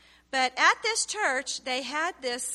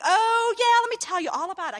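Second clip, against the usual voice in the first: louder, higher and fast, a sarcastic outburst; indignant retort; 10 semitones higher, 8 dB louder than usual. Retold or imitated. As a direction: throw it back at him in a heated, mocking tone. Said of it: "I was mad".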